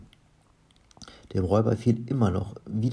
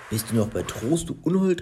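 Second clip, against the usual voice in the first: indignant screech leaping high at the end; narrator's mock shriek of an outraged wife; 4 semitones higher than usual. A narrator's reading. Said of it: "kreischte Olli".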